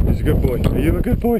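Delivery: sing-song praise for a good dog; talking to a dog. Real, not acted. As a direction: coo at the dog like a pet owner.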